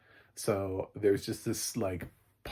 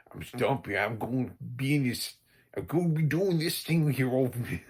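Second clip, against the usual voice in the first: goofy, much higher character voice; imitating Stumpy's voice; 5 semitones higher, 4 dB louder than usual. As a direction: imitate the oddball sidekick's put-on voice. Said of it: "where did you get this voice from".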